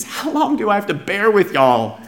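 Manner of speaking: mock-exasperated teacher at a loss. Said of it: "He's exasperated".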